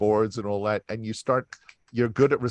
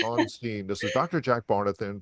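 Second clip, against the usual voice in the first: lightly voiced TV news reporter. Shown as a demonstration. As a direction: sign off like a field reporter. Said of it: "I sound like a reporter".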